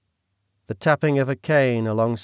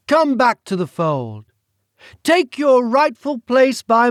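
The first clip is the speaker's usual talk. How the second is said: British villain voice; 12 semitones higher, 7 dB louder, slower than usual. Acted. The Duke speaks.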